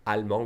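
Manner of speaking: "allemand" ending on a nasal vowel; silent final D. Shown as a demonstration. Teacher explaining the masculine form, "allemand" with D silent. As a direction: leave the D off "allemand". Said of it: "we don't say the D".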